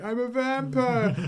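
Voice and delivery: hammed-up imitation of a madman yelling in the street; screaming. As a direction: shout "vampire" out long and high down the street. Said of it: "running down the street screaming".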